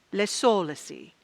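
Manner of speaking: lightly French-flavoured invented word; French accent. Shown as a demonstration. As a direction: repeat it with a touch of French accent. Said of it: "say with a French accent".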